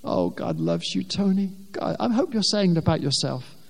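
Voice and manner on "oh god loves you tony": gentle whisper. Retold or imitated. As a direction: murmur it like a quiet inner voice. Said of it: "He whispers to me".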